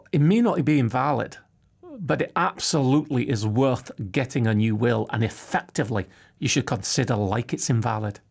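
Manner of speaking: light Scottish accent, lightly put on; a hint of a Scottish solicitor's accent; Austin's Scottish accent. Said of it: "do I do his accent or not".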